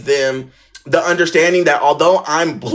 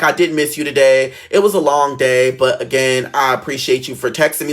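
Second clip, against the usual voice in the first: lightly voiced earnest boy, lower pitch; a hint of a grown-up-sounding boy, lowered voice; imitating Jose; 5 semitones lower than usual. Boy on the phone thanking her for texting, imitated low and earnest. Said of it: "he's really talking like this".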